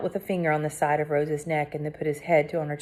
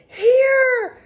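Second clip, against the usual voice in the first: croaked; 7 dB louder than usual. A narrator's reading. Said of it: "I croaked".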